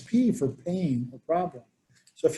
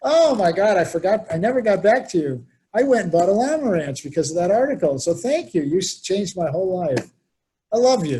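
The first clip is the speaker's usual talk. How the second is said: excited gratitude; 4 semitones higher, 4 dB louder than usual. Retold or imitated. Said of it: "He goes".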